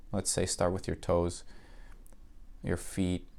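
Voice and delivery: even, unhurried meditation voice with long pauses; calm, level delivery, letting each phrase settle; guided meditation. Acted. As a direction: guide the listener gently into relaxation.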